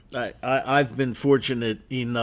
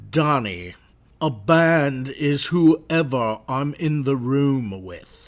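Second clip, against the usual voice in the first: slow, dry, stodgy English drawl; deadpan posh Englishman, unhurried; droll English voice; slower than usual. Retold or imitated. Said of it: "very, uh, droll, kind of stodgy English voice".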